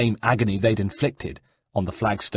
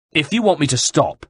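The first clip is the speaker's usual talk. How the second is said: shouted; 6 semitones higher, 4 dB louder than usual. Acted. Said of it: "shouted the guard".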